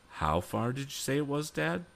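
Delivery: high-pitched, eager question to Dad; quick question. Acted. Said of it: "asked Tom quickly".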